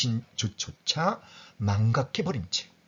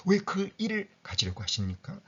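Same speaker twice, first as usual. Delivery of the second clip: usual speaking voice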